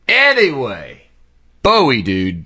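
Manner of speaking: emphatic segue. Real, not acted. Snaps back from the silly aside.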